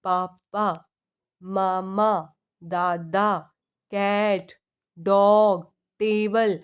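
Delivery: spaced-out single words; one word at a time. Shown as a demonstration. Teacher giving examples of a toddler's first words, one word at a time. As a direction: list each word separately, pausing between them. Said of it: "एक word बोलना शुरू कर देता है".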